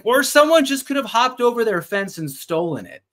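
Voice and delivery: mock-solemn Victorian drama; mock serious. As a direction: play the sudden dead-serious turn for laughs. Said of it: "And then he gets serious".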